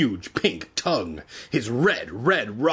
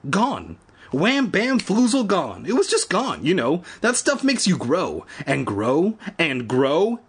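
frantic; 5 semitones higher than usual. Acted. Evan's frantic speech.

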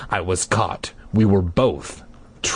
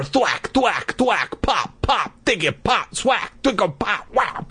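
playful sound effects; 11 semitones higher than usual. Acted. Story sound effects piling up.

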